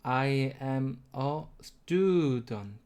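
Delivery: student stressed on stud, the rest unstressed. Shown as a demonstration. Teacher shows English stress to learners, on student. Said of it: "얘를 발음해보면".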